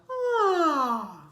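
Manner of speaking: loud yawn sliding down. Shown as a demonstration. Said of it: "Pretend like you're yawning and just go".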